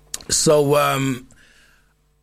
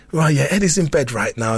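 lightly put-on voice, a little raised; 3 semitones higher than usual. Friend covering for Eddie to his dad, put-on voice. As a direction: bluff down the phone in a mildly disguised voice. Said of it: "put on this voice".

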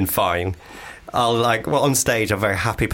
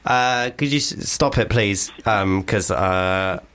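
hesitant English self; much slower than usual. Shown as a demonstration. The speaker redoes his Boston outburst as himself, hesitant English. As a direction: own English accent, mild and halting. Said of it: "if I was to say that in English".

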